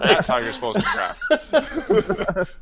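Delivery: laughing, slow and pleased. Real, not acted. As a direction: savor it through a laugh. Triumphant answer with a laugh.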